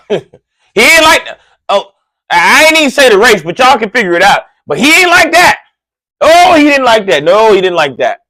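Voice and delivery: cracking up over the parent's reaction; laughing. Real, not acted. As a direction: laugh through it with glee.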